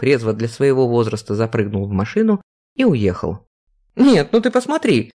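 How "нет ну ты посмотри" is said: exclaiming. Acted. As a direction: throw up your hands in exasperation. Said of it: "воскликнула Вера".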